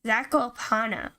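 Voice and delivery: Zakopana slowly, stress on the pa; careful repeat. Shown as a demonstration. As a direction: try to say it right. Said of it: "I wanna say it right".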